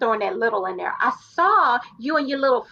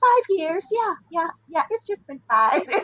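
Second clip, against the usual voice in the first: nonchalant, offhand, breezy, pitched up; 6 semitones higher than usual. Retelling how an inmate announced her release date: imitating Elizabeth's no-big-deal tone. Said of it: "the way she said it was like, it was no big deal".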